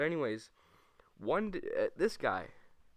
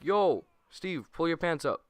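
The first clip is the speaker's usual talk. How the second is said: loud, higher call across class; 5 semitones higher, 5 dB louder than usual. Retold or imitated. Classmate calling across the room, loud. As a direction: call out to him, half alarmed. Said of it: "and he's like".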